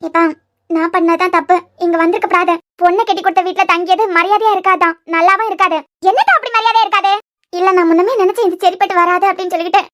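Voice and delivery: heated, offended complaint; indignant retort. Acted. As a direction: push back hard, offended. Heated quarrel about staying here.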